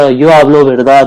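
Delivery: "Yo hablo verdad" said very slowly; slow model sentence. Shown as a demonstration. Teacher showing students a sentence, very slowly. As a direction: give each word its own slow beat. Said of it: "अगर कोई बंदा आपको".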